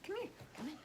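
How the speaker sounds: high mock calling voice; imitating the dog calling. Owner imitating her dog calling the cat, high. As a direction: voice the dog fussing over the kitty. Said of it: "She's always".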